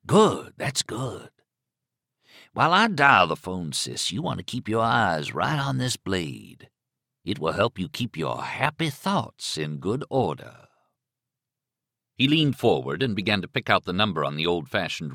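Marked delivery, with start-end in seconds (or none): 0.0-10.7 menacing killer. Acted. Killer dials with razor out, menacing. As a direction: toy with the captive while giving orders. Killer instructing his captive.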